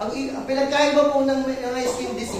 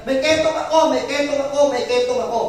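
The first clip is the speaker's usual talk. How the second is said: mild mock shout, repeated as a warning; imitated lepers' cry; 2 semitones higher, 4 dB louder than usual. Lepers warning passersby as they approach, imitated shouting. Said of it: "sumisigaw sila na".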